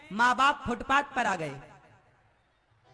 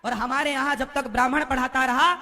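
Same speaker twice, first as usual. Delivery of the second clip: ordinary talk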